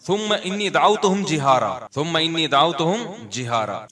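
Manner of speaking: melodic Arabic recitation, verse cadence; Quran recitation. Acted. Preacher reciting the verse to his listeners, melodic recitation. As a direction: chant the verse like a qari.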